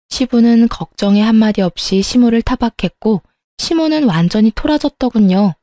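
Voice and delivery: usual speaking voice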